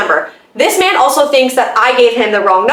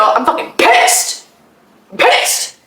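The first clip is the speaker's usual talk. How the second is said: under breath; much slower than usual. Real, not acted. Annoyed while waiting at till.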